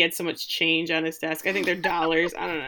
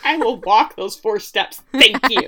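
slow, louder prim declaration; mock haughty lady; 3 semitones higher, 6 dB louder than usual. Daphne to the butler, slow prim mock dignity. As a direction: make it a grand little announcement. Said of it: "She's like".

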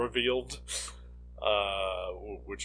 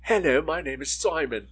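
put-on higher, louder childlike character voice; Simon; 5 semitones higher, 4 dB louder than usual. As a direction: play a little character introducing himself. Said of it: "all I could think about was".

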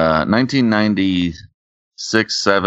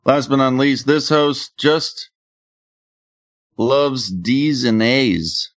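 very slow, higher-pitched host intro; drawn-out introduction; 6 semitones higher, slower than usual. Acted. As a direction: stretch out each word for the punchline.

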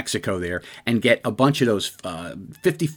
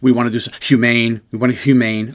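mild mocking imitation of a repeated slogan, a bit louder; mocking a politician; 5 dB louder than usual. Commentator mocking a politician's slogan, lightly sneering. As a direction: parrot the line back with light scorn. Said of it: "Pierre Joseph says it every single time".

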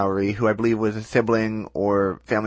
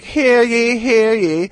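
high, loud proclaiming town crier; 11 semitones higher, 6 dB louder, much slower than usual. Retold or imitated. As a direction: bellow it out like a herald in the square. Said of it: "being like".

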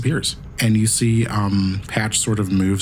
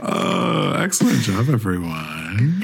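robot voice; slower than usual. Acted. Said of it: "I gotta stop doing my robot voice now".

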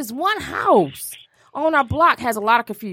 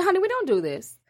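higher-pitched mock-proper London reproof; prissy London lady; 4 semitones higher, 4 dB quieter than usual. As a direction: imitate a prim London lady correcting someone. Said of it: "talking like I was from goddamn London".

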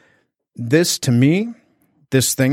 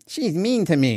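put-on whiny inner child; 6 semitones higher than usual. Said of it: "my poor little ego goes into".

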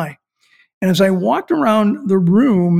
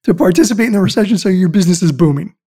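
amazed exclamation; 5 dB louder than usual. Retold or imitated. Retelling an amazed reaction.

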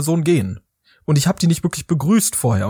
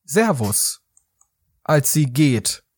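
imitated goodbye; 3 semitones lower, much slower than usual. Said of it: "diese Person sagt".

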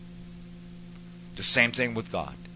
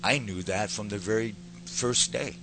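with love; 5 dB quieter than usual. Retold or imitated. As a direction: gently reassure a son, with long pauses. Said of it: "With love".

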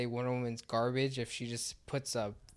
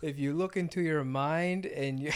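lightly voiced dreamy comic writer; a hint of a mystical guru musing; Grant Morrison impression; 2 semitones higher than usual. Podcaster briefly imitating a comic writer, lightly voiced. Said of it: "okay, that's my Grant Morrison".

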